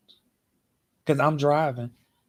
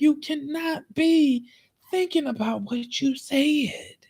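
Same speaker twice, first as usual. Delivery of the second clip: slow whisper; 9 semitones higher, slower than usual. Retold or imitated. Incredulous, drawn-out retort.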